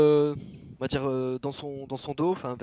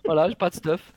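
laughing complaint; 7 semitones higher, 5 dB louder than usual. Pretend.

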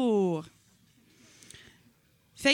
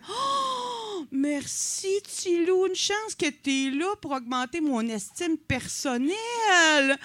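hammed-up fake crying, pitched higher and drawn out; mock tearful thanks; 5 semitones higher, slower than usual. Comedian mock-thanking the young comic, hammed-up teary sarcasm. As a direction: gush with sarcastic fake tears.

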